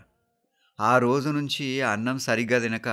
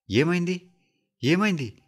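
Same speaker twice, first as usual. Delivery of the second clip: high, startled questioning; anxious, high-pitched repeated question; alarmed; 8 semitones higher than usual. A narrator's reading. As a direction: ask in rising panic. Screen blanks, son panics.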